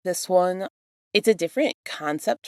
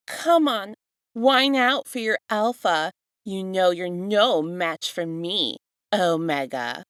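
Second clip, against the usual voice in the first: villain taunt; 3 semitones higher, slower than usual. Acted.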